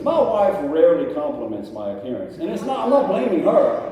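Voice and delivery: joking protest. Real, not acted. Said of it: "joking about his wife".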